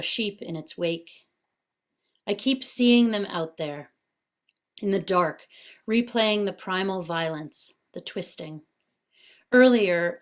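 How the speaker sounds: measured poetry recital with deliberate pauses; poem reading. Acted. Poet reads Caught to online listeners, measured poetry reading. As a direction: read the poem line by line, pausing between phrases.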